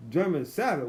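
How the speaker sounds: "Sabbath" echoed for shepherd; puzzled echo. Retold or imitated. Puzzled visitor repeating the family's word, shepherd said as "Sabbath". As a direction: question the word "Sabbath", s in place of sh. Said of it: "German Sabbath was German Shepherd".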